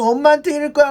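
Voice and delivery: high, mock-tearful child threatening to tell mom; crying child. Four-year-old crying after a flick, mock tearful whine. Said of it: "울면서".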